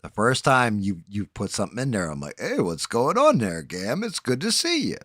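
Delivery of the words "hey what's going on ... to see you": mock Smurf greeting. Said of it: "his imitation of me".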